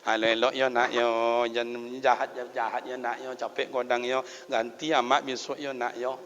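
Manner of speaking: lightly voiced parent comforting a child; soothing parent. Parent to sick child, telling them to get better, soothing.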